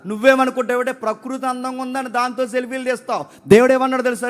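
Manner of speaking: high-pitched, insistent sermon delivery; forceful preaching. Real, not acted. Preacher telling the congregation nature has no beauty without marriage, forceful preaching. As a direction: press each point home to the congregation.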